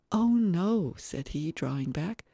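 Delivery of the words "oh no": put-on higher child's refusal; reluctant little boy. Little boy drawing back from the floor, reluctant. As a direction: shrink from the invitation.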